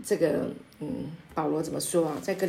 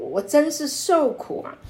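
anguished lament; 8 semitones higher, 4 dB louder than usual. Acted. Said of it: "诗篇一百一十九篇的这个作者讲的".

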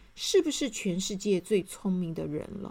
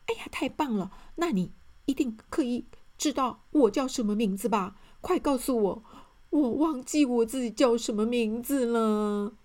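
eager quick question; 4 semitones higher than usual. Acted. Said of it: "赶快问".

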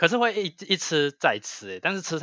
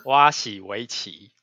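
slow announcer intro; 3 semitones lower, much slower than usual. Shown as a demonstration. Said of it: "那不然你再重来一次".

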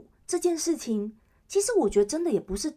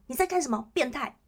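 milder call-out; 3 semitones higher than usual. Pretend. Girl slapping the groper's hand on the bus, a milder firm call-out. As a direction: call it out firmly but without a full yell. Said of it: "然后说".

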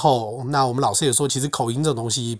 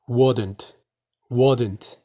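"wouldn't" said in a Texas accent, the "s" turned to a "d". Shown as a demonstration. Teacher demos the Texas way to say "wouldn't" in a Texas accent. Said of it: "德州可能会念".

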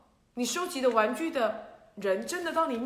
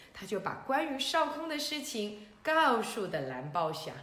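plain reading voice

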